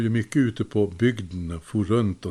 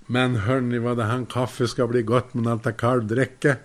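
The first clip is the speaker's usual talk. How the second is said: louder, deliberately audible remark; 2 semitones higher, 4 dB louder than usual. Retold or imitated. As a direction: say it loud so the whole kitchen hears. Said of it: "Och så säger jag högt".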